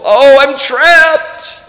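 high, slow, drawn-out mock despair; dismal wail. Pilgrim despairing in the dungeon, dismal acted wail. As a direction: wail it slowly, hammed-up misery. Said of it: "he's just so dismal".

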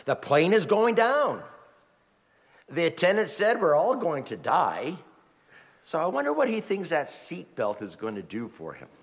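lightly voiced bemused inner thought; muse, amused and puzzled; a hint of wry puzzlement. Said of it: "And I thought".

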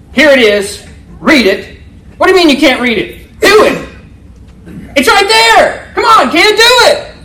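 acted exasperated shouting, pitch leaping high; harsh kindergarten teacher. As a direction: berate a small child, building to a high yell. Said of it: "does that kindergarten teacher come over".

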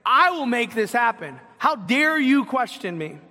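mildly hammed-up, indignant arrogance; arrogant. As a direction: act out a proud, affronted boast. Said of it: "he's this arrogant".

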